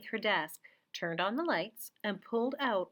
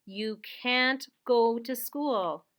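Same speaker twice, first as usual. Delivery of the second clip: firm father; 5 dB louder, much slower than usual. Acted. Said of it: "Her father said".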